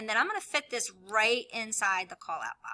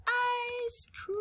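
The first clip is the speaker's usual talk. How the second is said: whispered; 14 semitones higher than usual. Acted. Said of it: "And then I'm right".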